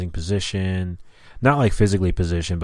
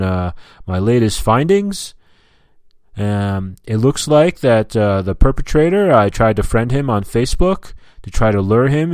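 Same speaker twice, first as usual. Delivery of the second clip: blabbing state trooper; 3 semitones higher, 4 dB louder than usual. Retold or imitated. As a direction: imitate a self-important cop reporting in. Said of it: "he's fucking blabbing this whole annoying motherfucking".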